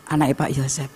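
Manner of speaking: low, soft aside, imitating bystanders; hushed retold remark; murmured gossip. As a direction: mimic someone murmuring about a passerby. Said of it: "bisik-bisik".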